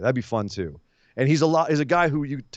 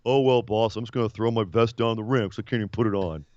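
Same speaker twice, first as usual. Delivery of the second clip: mock Austin Theory; 3 semitones lower than usual. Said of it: "He's like".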